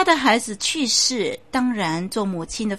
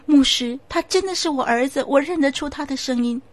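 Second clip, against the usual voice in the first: higher, pleading insistence; tearful mother; 5 semitones higher than usual. Acted. The weeping mother pleads with the pastor, higher. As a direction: she tries to convince the pastor.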